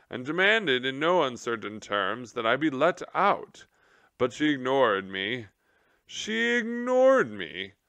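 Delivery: high, outraged officer; the general complaining about being ignored; indignant general. Acted. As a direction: rise to wounded indignation.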